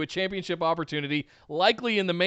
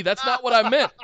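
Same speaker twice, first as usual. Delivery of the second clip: laughing; 5 semitones higher, 3 dB louder than usual. Real, not acted. Laughing self-correction.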